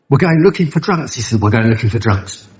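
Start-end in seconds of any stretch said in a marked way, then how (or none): 0.1-1.1 pitched-up disbelieving repeat; incredulous echo. Retold or imitated. Newcomer echoing his sponsor's odd plan, incredulous. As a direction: repeat it as if you can't believe it.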